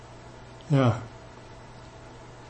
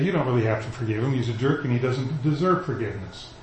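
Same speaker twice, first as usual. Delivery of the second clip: tempting voice; 6 dB quieter than usual. Acted. The enemy tempting, voiced quietly.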